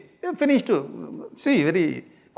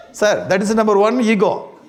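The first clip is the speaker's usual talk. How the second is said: laughing; 4 semitones higher, 4 dB louder than usual. Real, not acted. Laughs at own joke.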